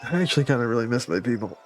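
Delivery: tipsy, sentimental slur; sloppy drunk confession. Acted. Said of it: "a weepy drunk".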